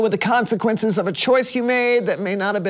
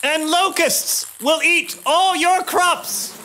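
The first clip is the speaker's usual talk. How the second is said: stern prophet warning; 5 semitones higher, slower than usual. Acted. Warning Pharaoh of the plagues.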